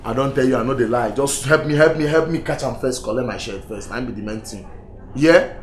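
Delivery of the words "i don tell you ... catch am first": loud, urgent insistence; insistent plea. Acted. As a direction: insist loudly that you're telling the truth. Man insists on innocence, begs help.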